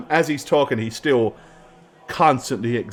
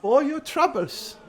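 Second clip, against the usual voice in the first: a higher, reverent, oily priest savouring the relic; 14 semitones higher than usual. Acted. Priest hands over bag.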